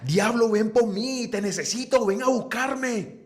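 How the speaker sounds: high, slow, drawn-out invoking wail; hammed-up slow tantrum plea; mock devil summoning. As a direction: call the devil like a theatrical brat. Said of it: "empieza a gritar".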